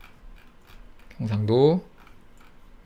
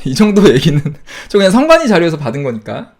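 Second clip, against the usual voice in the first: louder, laughing through the words; amused, self-reassuring laugh; 3 semitones higher, 8 dB louder than usual. Real, not acted. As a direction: chuckle while brushing off the worry. Nervous joke about being sued.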